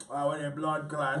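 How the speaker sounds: lightly mocking a switch into a Jamaican accent; a hint of a Jamaican accent, teasing; put-on Jamaican accent. Mocking friends who slip into a Jamaican accent around others. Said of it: "why you change your whole voice".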